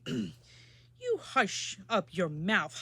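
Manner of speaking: howl. Acted. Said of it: "howled the mighty King Yertle".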